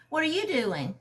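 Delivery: a hint of a playful girlfriend; woman's voice. Benny asks Randy back.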